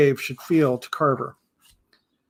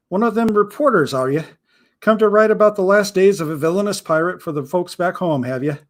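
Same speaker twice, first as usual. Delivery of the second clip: a hint of a wary old pirate, teasing; mild pirate voice, probing the visitor; lightly voiced suspicious pirate; 3 semitones higher than usual.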